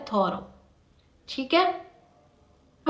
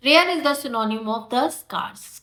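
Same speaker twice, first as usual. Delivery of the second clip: very slow, clear statement; deliberate slow read; slow answer; much slower than usual. Shown as a demonstration. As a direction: spell out the answer for students. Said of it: "उसको हम बोलते हैं rare".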